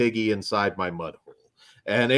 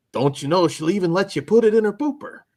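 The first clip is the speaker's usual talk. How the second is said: put-on Canadian accent, pitched up; 9 semitones higher than usual. Asked to redo a quoted line, delivering it in a canadian accent. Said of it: "do it in the Canadian accent".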